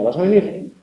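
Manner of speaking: ¿vas a venir? soft, rising on venir; question intonation. Shown as a demonstration. Teacher demonstrating a question, soft rising tune on ¿vas a venir?. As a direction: ask it, lifting venir at the end. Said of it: "o puede ser una pregunta".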